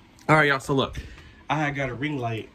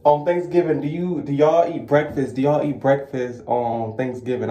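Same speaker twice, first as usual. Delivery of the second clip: quoting a post; 3 semitones higher, 5 dB louder than usual. Retold or imitated. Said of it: "It was like".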